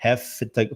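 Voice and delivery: "Have to" said as "hafta", v becomes f; connected speech. Shown as a demonstration. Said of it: "o Vzinho no final vai virar um F". ("Have to" como "hafta")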